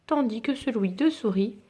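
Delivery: gentle bedtime storybook reading; story narration. A narrator's reading. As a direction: read it like a picture book to a child. Reads picture book aloud.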